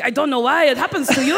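fast, laughing mock French accent; tossing off a jokey French accent. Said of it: "that is my very accurate French accent".

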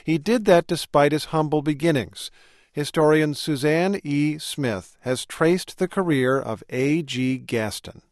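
measured, slow scripted radio read; polished presenter introducing a story; radio feature narration. Real, not acted. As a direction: narrate it like a public-radio host.

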